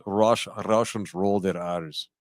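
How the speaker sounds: slow, low Russian attempt rolling the R in "Russians"; botched Russian accent, Irish-sounding R's; rolled-R Russian accent. Shown as a demonstration. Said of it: "they roll their R's".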